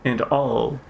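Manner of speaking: lightly voiced formal master, measured; a hint of grave, composed authority. Master accepting figs from a pupil, lightly formal.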